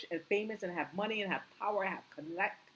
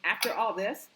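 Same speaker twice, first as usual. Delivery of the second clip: getting hyped; 5 dB louder than usual. Real, not acted. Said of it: "excuse me, I'm getting so hyped".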